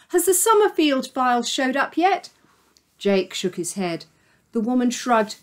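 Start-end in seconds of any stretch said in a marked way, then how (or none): 0.1-2.3 woman's voice. Acted. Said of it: "a woman called at Jake".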